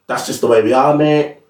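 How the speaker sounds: lightly imitated, unconvincing Australian accent; bad Australian accent. Football fan mimicking the manager's catchphrase, poor Australian accent. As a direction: attempt a rough Australian accent on the quote. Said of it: "In, in Australian accent, I've got a shit Australian accent".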